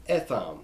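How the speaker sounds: Etham said as "eh-THAHM"; Hebrew pronunciation. Shown as a demonstration. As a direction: give Etham a short e. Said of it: "but it's Etham".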